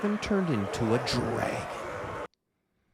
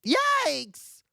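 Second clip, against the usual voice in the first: put-on higher, louder yelp of a startled boy; startled cry; 5 dB louder than usual. A narrator's reading. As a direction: jump back in fright. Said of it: "a boy named Ben cried".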